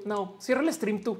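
playful "no, cierra el stream tú" like lovers; giggly late night call. Pretend. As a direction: tease "you hang up first". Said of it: "no quiero colgar".

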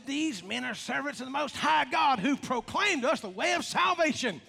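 a mildly heightened, emphatic proclamation; mild crying out. Retold or imitated. Preacher quoting the slave girl following Paul, mildly crying out. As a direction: proclaim it with rising pitch toward the end. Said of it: "cried out, said".

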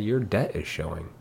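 quietly matter-of-fact comeback; calm rebuttal. Retold or imitated. Answering a lady's online comment, retold calmly. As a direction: retell a calm, understated retort. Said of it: "So I rebutted very calmly".

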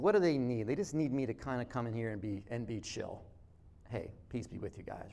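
quiet Jesus. Retold or imitated. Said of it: "he's like".

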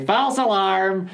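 a hint of a cranky old man calling out. Shown as a demonstration. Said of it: "in a nasal, pitched up old man voice like that".

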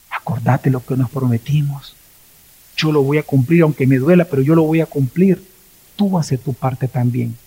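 a spouse gently recalling a promise; tender vow. Acted.

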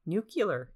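Nuclear said as nu-ku-ler, Homer style; mock Homer mangling Nuclear as nu-ku-ler; Homer saying nuclear. Imitating Homer mispronouncing the word to listeners, nu-ku-ler. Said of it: "like Homer trying to say that".

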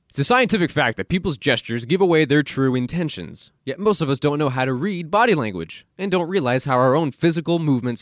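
brisk back-cover blurb read; synopsis read. Acted. Host reading the book synopsis to listeners, promo read. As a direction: read it like a book's sales blurb.

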